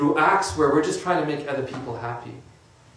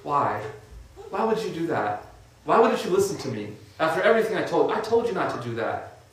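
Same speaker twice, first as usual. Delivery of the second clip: mild pitying mother. Retold or imitated. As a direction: gently ask like a sorrowful mother. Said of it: "the mother just looks at him and says".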